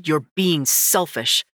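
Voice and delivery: slow, cold accusation; accusing. Acted. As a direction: accuse her flatly. Brother accusing.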